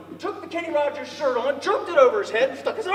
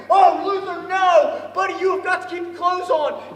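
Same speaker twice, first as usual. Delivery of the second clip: loud, higher cry of alarm; alarmed yell; 3 semitones higher, 4 dB louder than usual. Retold or imitated. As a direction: shout him down before it's too late. Kids screaming at Luther.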